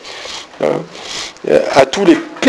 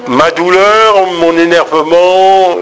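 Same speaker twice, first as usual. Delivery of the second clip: pained, irritated; 3 semitones higher, slower than usual. Shown as a demonstration. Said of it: "il était dans".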